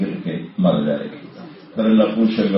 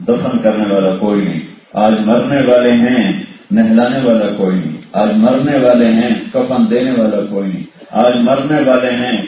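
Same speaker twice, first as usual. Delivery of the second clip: rising, chanted sermon cadence with a louder repeated line; preaching refrain; 2 semitones higher, 3 dB louder than usual. Acted. Preacher chanting to his congregation about the day of death, rhythmic and rising. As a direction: drive the refrain home to the congregation.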